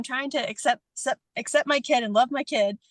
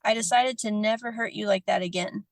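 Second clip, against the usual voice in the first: heartfelt letter reading. Real, not acted. Reads apology letter aloud.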